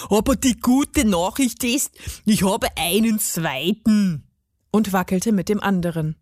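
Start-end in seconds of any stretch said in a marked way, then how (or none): 0.1-4.2 put-on gnome voice, proudly announcing; garden gnome. A narrator's reading. Gnome shows the girl his other arm, proud. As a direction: play the gnome offering good news.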